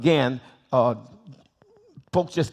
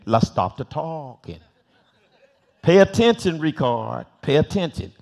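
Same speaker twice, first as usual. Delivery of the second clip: mimicking the teacher. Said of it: "I said".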